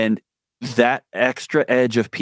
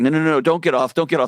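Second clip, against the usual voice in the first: quick take-back; 5 semitones higher, faster than usual. Retold or imitated. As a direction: take back get off eagerly. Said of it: "I was like".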